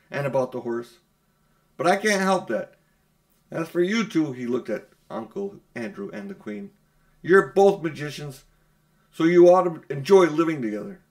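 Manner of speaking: loud scornful taunt; boy shouting a parting jab; defiant boy. Acted. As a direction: throw it back at them loudly. Diggory still shouting.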